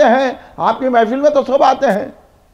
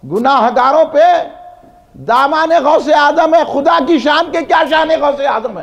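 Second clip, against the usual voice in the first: verse recitation. Real, not acted. Recites praise verse to congregation.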